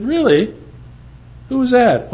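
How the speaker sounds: high, surprised disbelief; retold stunned question; incredulous. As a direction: raise the voice in mock amazement. Incredulous reply to Charlie's news.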